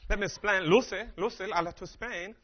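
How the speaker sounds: light attempt at a Cuban accent; a hint of a Cuban accent, playful; Ricky Ricardo. Shown as a demonstration. Comic husband explaining to Lucy in a light Cuban accent. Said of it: "I love doing Ricky Ricardo".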